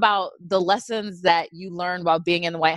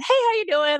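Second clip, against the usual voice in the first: put-on cheerful child greeting; 12 semitones higher than usual. Child Laura greets visitor.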